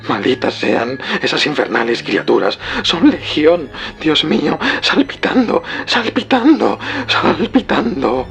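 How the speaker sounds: escalating high-pitched scream of horror; whisper rising to shriek. A narrator's reading. Warren curses the infernal creatures, rising to a shriek. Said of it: "se convirtió en un grito, un grito que poco a poco fue elevándose hasta un alarido".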